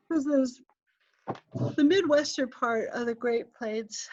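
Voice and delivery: talking through a yawn; words stretched by a yawn. Real, not acted. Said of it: "sorry for the giant yawn".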